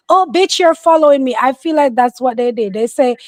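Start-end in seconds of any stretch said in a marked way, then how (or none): 0.1-1.4 mock shout. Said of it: "to shout out".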